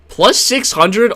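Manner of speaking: slow and shocked at the number; surprised. Real, not acted. Shocked rereading of betting odds.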